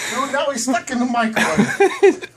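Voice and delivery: slow words through laughter; laughing. Real, not acted. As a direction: laugh while telling it. Bird stuck, laughing.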